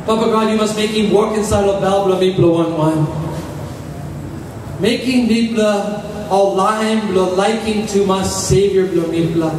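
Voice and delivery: rhythmic pleading prayer. Acted. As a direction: pray for the people. Congregational prayer for the people.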